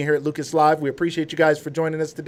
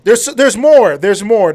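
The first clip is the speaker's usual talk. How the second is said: higher, louder hype-up; excited hype; 5 semitones higher, 8 dB louder, slower than usual. Real, not acted. Host telling viewers there's more to come, excited hype. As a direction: build excitement with punchy, raised repeats.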